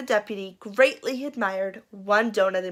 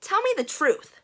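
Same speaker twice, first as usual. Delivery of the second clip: confession plea; 10 semitones higher than usual. Acted. Sheriff's high confession plea.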